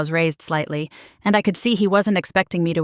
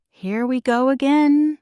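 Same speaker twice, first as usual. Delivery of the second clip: muttered; 5 semitones higher, slower than usual. Acted. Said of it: "I muttered".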